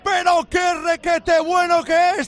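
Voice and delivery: slow, shouted praise; excited goal call. Real, not acted. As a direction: savor the scorer's name. (elogio gritado y emocionado)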